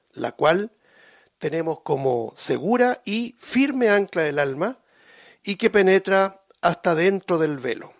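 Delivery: measured, declaiming Bible reading; solemn reading from the pulpit; scripture reading. Acted. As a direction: read the verses out as holy text. Reads scripture aloud.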